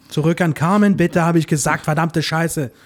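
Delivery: annoyed aside, words spat out; cursing under breath. Pretend. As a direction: swear off-mic in frustration. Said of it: "das Mikrofon läuft noch". (fluchend vor sich hin geschimpft)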